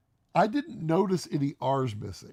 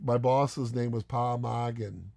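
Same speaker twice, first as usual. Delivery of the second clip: slow imitation of a Boston accent; 3 semitones lower, slower than usual. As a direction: drop the R's like a Bostonian. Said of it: "basically slapped with accent".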